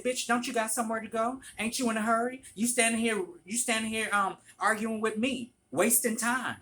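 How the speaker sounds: loud, high, relentless retold tirade; ripping into her. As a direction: hammer her with heated questions. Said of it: "I ripped her a new asshole".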